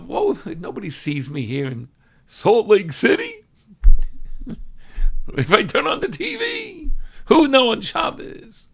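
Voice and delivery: a hint of a guilty schemer; tempted inner voice. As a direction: play the sneaky temptation. Tempted person's inner thought.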